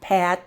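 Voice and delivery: "Pat" ending on a soft stopped T; quiet final T. Shown as a demonstration. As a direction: keep the T in "Pat" barely audible. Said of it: "It's not a very loud sound".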